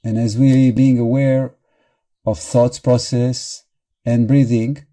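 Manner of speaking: measured guiding voice with long pauses; guided meditation. Real, not acted. Meditation teacher guiding listeners into awareness of thoughts and breathing, in a measured guiding voice. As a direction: lead them gently through it, leaving long silences.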